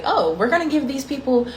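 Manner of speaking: mock the people who planned it, lightly; mocking the planners.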